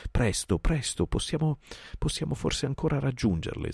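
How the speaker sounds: high, breathless panting words; puffing. Acted. Baloo trotting heavily, puffs out hope to Bagheera, breathless. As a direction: gasp it out mid-trot. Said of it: "sbuffò Baloo".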